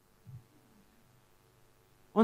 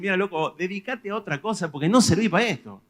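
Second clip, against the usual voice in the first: blunt mock advice; 6 semitones higher, 6 dB louder than usual. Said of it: "no querés lastimarlo y decir".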